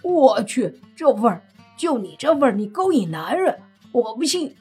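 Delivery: loud, mock-gagging disgust. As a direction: recoil at the smell. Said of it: "便立马一副恶心的模样说道".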